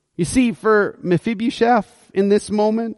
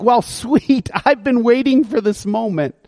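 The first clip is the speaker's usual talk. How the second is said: mock excited; 5 semitones higher than usual. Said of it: "Is he like".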